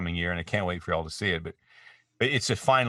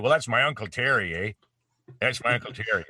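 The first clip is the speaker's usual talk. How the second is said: higher, folksy Canadian accent; lilting Ontario Canadian voice; Uncle Terry; 4 semitones higher than usual. Shown as a demonstration. Actor showing Shocksquatch as his uncle, Canadian accent. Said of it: "They all talk like that".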